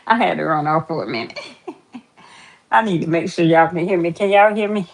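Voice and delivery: breathless after rushing back; panting lightly between words; out of breath. Real, not acted. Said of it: "I'm out of breath".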